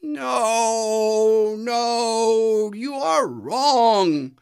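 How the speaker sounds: father tiger refusing the cub's bleat; big father tiger. A narrator's reading. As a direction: correct him firmly and slowly. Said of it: "said the big tiger".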